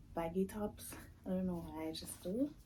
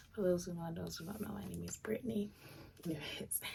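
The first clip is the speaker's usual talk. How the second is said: raspy just-woke-up voice; rough morning rasp; faster than usual. Real, not acted. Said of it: "sorry for the raspy voice".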